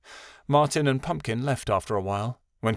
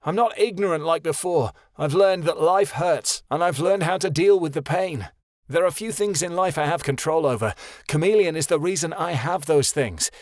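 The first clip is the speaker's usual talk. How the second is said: continued shouting; 6 semitones higher than usual. A narrator's reading. Son ranting at his father, shouting. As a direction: keep yelling your defiance. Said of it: "Keanu shouted".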